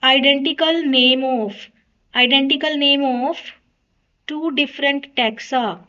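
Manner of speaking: very slow, word by word; slow dictation. Shown as a demonstration. Teacher reading the right option out for students to tick, very slow. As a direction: dictate the answer slowly so they tick it. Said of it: "तो टिक कीजिए".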